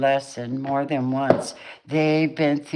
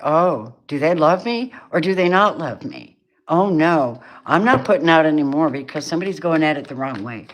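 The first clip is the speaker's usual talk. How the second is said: exasperated withdrawn lover; 5 dB louder than usual. Retold or imitated. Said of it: "They're like".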